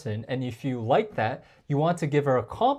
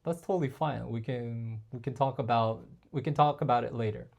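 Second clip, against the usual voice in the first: relaxed reassurance, a bit softer; easygoing and non-needy; calm, unbothered; 4 semitones lower, 5 dB quieter than usual. Shown as a demonstration. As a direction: shrug it off gently. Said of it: "you could say something like".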